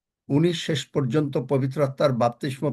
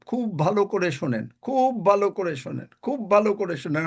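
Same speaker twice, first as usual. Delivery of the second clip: "খুব ভালো করে শোনেন" raised and insistent each time; emphatic repetition; 4 semitones higher than usual. Real, not acted. Preacher to congregation, making them listen carefully, emphatic repetition. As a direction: drive home "খুব ভালো করে শোনেন" with higher pitch. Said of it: "আমি তিনবার বলছি".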